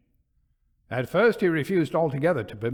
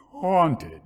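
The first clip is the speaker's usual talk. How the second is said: a louder exclamation, falling at the end; cried out; 3 semitones higher, 5 dB louder than usual. Acted. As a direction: cry the word out in mock disbelief. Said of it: "cried Stanley".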